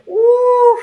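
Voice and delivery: high-pitched drawn-out "uf" of imagined disapproval; imitated onlooker's high "uf"; mock disapproving "uf". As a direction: let out a long, high "uf", imitating someone appalled. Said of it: "y rápidamente piense".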